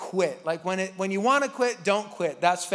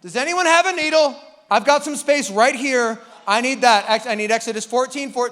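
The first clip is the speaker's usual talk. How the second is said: louder, eager fan voice; excited Israelite; 2 semitones higher, 7 dB louder than usual. Retold or imitated. Israelite asking for a tattoo, loud and eager. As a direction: gush about the line like a fan. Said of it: "angry Israelites were like".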